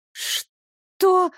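a high, faltering "Что?"; stammered. A narrator's reading. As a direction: stammer it out in shock. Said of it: "заикаясь, пролепетала я".

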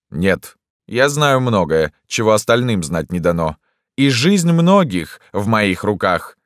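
loud, slow, emphatic declaration; self-important doctor. A narrator's reading. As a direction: proclaim it with weighty pride. Doctor asserting authority.

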